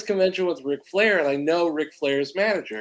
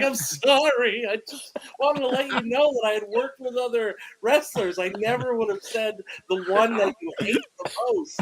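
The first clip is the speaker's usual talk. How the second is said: sheepish apology; 5 semitones higher than usual. Retold or imitated. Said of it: "I was like".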